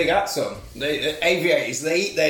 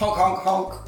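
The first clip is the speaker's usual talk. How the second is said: clown honks and squeaks; 3 semitones higher, slower than usual. Pretend. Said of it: "You're like Benny Hill".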